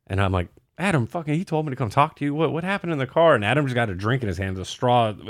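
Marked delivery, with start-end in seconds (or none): 0.8-3.3 higher, baffled demand for answers; imitating a confused confrontation; mock demanding. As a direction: press him like you can't believe it. Confronting Adam in retelling.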